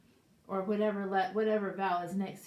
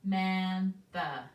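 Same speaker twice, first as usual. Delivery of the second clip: slow sounding out; 5 dB louder, slower than usual. Shown as a demonstration. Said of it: "three A's in her name".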